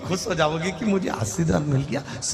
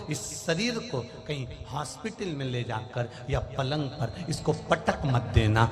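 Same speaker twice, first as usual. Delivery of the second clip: devotee's prayer; 4 semitones lower, 6 dB quieter than usual. Acted. Voices a devotee's prayer to Mahadev.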